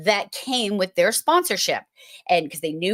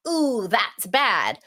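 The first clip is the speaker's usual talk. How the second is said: mock spooked; slower than usual. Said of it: "you're like".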